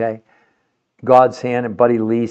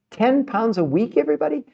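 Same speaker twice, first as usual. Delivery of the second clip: mock disbelief; 12 semitones higher than usual. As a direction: stretch out "Ten pounds a week" as if you can't believe it. Rhetorical disbelief at weight loss.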